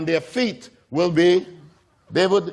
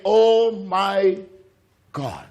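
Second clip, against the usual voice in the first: aghast disapproval; much slower than usual. Acted. Pharisees watching the woman approach Jesus, acted aghast. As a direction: let it sink in aghast disbelief.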